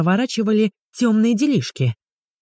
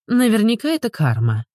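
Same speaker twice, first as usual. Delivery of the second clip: snorting retort; 6 semitones higher than usual. A narrator's reading. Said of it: "фыркнула Ульяна".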